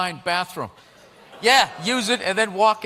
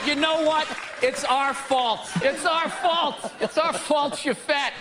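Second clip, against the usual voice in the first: mock apology; 5 semitones higher, slower than usual. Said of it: "They said".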